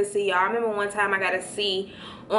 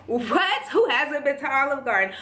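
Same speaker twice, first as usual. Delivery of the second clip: higher, incredulous outburst; 5 semitones higher than usual. Real, not acted. Vlogger answering a question about Olive Garden, incredulous. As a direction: react in playful disbelief. Mock shock at an obvious question.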